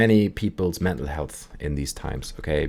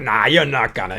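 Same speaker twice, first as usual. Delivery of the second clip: louder, higher acted comeback; mock scoffing denial; 5 semitones higher, 5 dB louder than usual. Storyteller playing Sven's challenger, scoffing denial. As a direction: doubt him in a playful quarrel. Acted back-and-forth dare.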